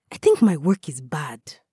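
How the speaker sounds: whispered confession; a hushed admission of self-doubt. Acted. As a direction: breathe it out with no voice.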